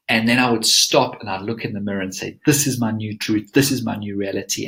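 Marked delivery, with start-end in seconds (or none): 2.4-4.7 calm, firm conviction; steady, certain self-affirmation; certain, sincere. Shown as a demonstration. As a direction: say it like you fully believe it. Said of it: "I would have such certainty".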